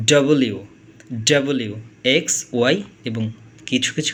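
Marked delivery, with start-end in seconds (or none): 0.1-1.8 ডব্লিউ said in three clear syllables; teacher showing ডব্লিউ; double-u. Shown as a demonstration. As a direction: spell out ডব্লিউ carefully. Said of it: "তার উচ্চারণ করে হচ্ছে".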